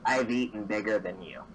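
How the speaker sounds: low, unimpressed creature voice; deadpan mimic. Mimic answers the indignant halfling.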